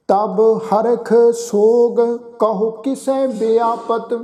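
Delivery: slow, measured scripture recitation; gurbani recitation. Acted. Granthi reciting Sukhmani Sahib to the sangat, slow and measured. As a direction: recite each phrase with pauses, devoutly.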